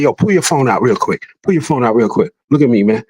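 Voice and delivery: low, controlled imitated order; re-enacted stern command. Confronting the driver at his truck, re-enacted stern command. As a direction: act out taking charge, pitch dropped low.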